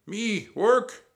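high, loud scoffing pirate; Captain Bones. A narrator's reading. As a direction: scoff at the very idea. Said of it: "Captain Bones chuckled".

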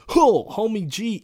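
high, slow mock hood voice; acting hood. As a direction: ham up a hood accent. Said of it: "Let me act hood".

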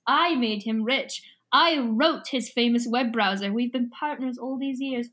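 lightly voiced Scottish villain; a hint of Scottish brogue. Yeerk explaining his partnership with his host, light Scottish accent. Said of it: "with the Scottish brogue".

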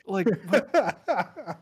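high, confused disbelief; can't compute it. Retold or imitated. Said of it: "from angry to just simply confused".

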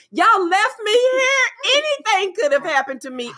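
hammed-up teary kid left behind; mock crying whine. Mother imitating her teen son's weepy complaint, mock crying.

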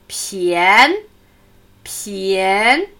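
Pien ending in an n near the teeth; front n. Shown as a demonstration. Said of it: "leicht in der Nähe der Zähne". (Pien mit frontlingualem N)

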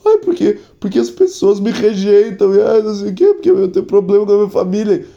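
high, hammed-up whining teenager; whiny teen mock. (adolescente chorão, voz aguda e caricata)

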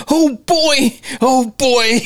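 high, fretful imitation; hammed-up flustered husband. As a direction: mutter it like a man out of his depth. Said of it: "He is flustered".

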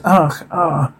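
soft, throaty dying "ach"; half-hearted gurgled groans; mock gurgling cry. Reader acts out gurgle sounds, soft mock death cries. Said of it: "Gurgle sounds".

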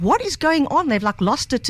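amazed dad. Retold or imitated.

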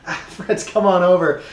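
loud, high hail to friends; acted party host calling out; calling friends over. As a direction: call out a hearty invitation.

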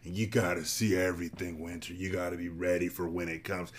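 lightly mimicked, softened lecturing voice; Santiago. Mocking Santiago's chess talk to Winter, light impression. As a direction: quote his tired old advice, toned down. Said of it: "Santiago always talked about how he played chess".

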